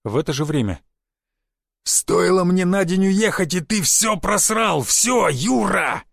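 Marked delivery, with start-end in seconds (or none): 1.8-6.0 slow, raised and higher furious rebuke; thundering boss. A narrator's reading. Police chief scolds his agent, booming slow anger. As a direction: drag each word out like a boss losing patience. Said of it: "громыхал Борщёв".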